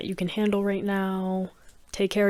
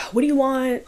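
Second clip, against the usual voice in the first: higher-pitched, curt retort; rude and short; 5 semitones higher, 4 dB louder than usual. Retold or imitated. Annoyed gamer answering his mother's call, rude and short. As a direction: imitate a son being short with his mom. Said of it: "Being very rude and short with her".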